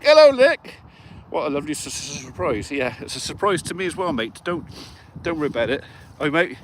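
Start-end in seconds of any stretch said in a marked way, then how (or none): 0.0-0.8 high, loud delighted hello; excited greeting. Real, not acted. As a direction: greet a mate with a big lift. Cheery greeting to a friend.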